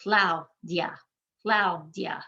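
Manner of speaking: "Claudia" as two syllables, CLAU-DIA. Shown as a demonstration. Teacher counting syllables, "Claudia" in two parts, CLAU-DIA. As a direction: blend AU and IA in "Claudia", each one sound. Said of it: "are also making one sound".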